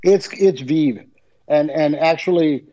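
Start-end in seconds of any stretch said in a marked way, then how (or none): 0.0-1.0 Vive with a long ee; Vive pronounced "veev". Real, not acted. Guest corrects host on the channel name, Vive as "veev". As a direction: slowly give Vive its ee sound. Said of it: "how do you pronounce this?".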